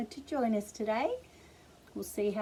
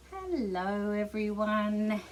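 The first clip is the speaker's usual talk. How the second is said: nice hello. Shown as a demonstration. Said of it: "as nicely as we can".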